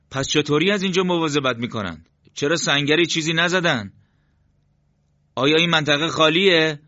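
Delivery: puzzled questions pitched well above the narration; leader puzzling aloud. A narrator's reading.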